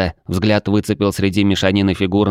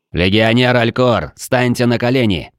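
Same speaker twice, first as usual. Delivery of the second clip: commanding shout; 4 semitones higher than usual. Acted. Shouted order.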